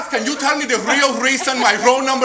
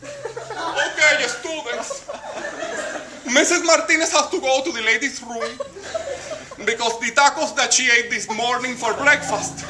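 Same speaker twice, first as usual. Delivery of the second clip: mock teacher voice; 3 semitones higher than usual. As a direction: play the flustered teacher making an announcement. The speaker imitating teacher Martinez.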